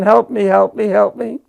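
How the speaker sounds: fighting back tears over the memory; voice breaking. Real, not acted. Veteran telling of the dying kid, voice breaking. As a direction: close to tears, pitch pushed up. Dying soldier crying for help.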